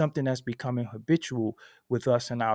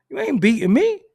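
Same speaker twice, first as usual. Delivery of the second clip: higher, louder, stress on "me"; a boast to the dealer, loud and proud; loud defiant boast; 11 semitones higher, 7 dB louder than usual. Shown as a demonstration. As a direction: throw "You ain't beating me" back louder and higher. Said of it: "You not, you ain't beating me".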